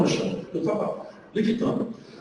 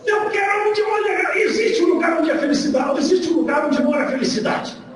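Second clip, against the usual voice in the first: shouting; 5 semitones higher than usual. Retold or imitated. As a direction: cry out in ecstatic longing. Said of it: "eu comecei a gritar".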